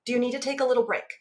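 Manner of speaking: gentle parent voice. Acted. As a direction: coax kindly, offering help. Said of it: "using that opposite voice with my daughter".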